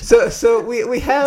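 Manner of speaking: high, loud, breaking up with laughter; laughing through it. Real, not acted. Host restarting a botched guest intro, laughing through it.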